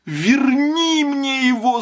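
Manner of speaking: high, piercing howl of demand; wail. A narrator's reading. Old woman howls at husband to bring her son back. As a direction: scream it, half mad with grief. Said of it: "завопила старуха".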